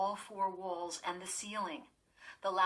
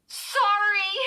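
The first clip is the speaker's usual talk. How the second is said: loud, high burst of a scream; tearful scream; 14 dB louder than usual. Acted. Girl screaming an apology at the neighbours before fleeing, loud and high. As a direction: blurt it out through tears. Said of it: "she finally managed to scream".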